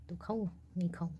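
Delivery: hushed whisper to herself; late-night whispered self-question. Real, not acted. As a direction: whisper the dilemma, almost to herself. Pondering a late-night snack.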